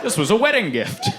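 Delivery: high-pitched, hammed-up protest; comically desperate self-justification; mock pleading. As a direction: plead your case to an officer. Pleading excuse to child services.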